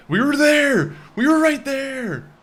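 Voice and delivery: high, loud wail of frustration; high-pitched yell at a near miss; anguished outcry. Real, not acted. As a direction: cry out in real exasperation. Loses just short of goal.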